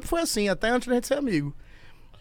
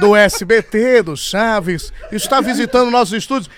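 TV host announcement; 6 dB louder than usual. Acted. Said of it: "Nós estamos recebendo aqui no nosso estúdio".

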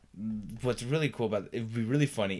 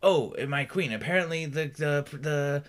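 authority voice; 3 semitones higher than usual. Shown as a demonstration. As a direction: announce it like a herald to the queen. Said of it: "Again, I didn't use this voice".

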